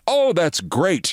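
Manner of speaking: put-on slow "Oh, that's great" in a light European accent; a mild hint of a European accent, drawn out; thick European accent. Marathon founder pleased on the phone, light European accent. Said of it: "he said in a rather thick European accent".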